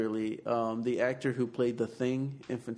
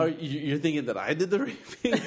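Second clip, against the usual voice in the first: laughing; 4 semitones higher than usual. Real, not acted. Laughing at accusation.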